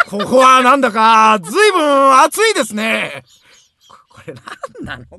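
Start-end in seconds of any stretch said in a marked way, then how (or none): 0.1-3.2 over-polite gentleman. Acted. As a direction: ham up a stiff proper gentleman. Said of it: "そんな言い方じゃないでしょ".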